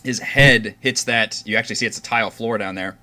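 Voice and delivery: measured scene-setting with pauses; game master narration. Acted. Game master tells players how Orvix falls, measured narration. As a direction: describe the action deliberately, beat by beat.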